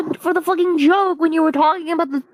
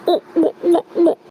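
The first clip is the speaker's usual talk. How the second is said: imitated oohs. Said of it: "then I went like".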